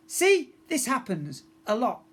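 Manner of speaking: weary. Acted. Tempestra explains.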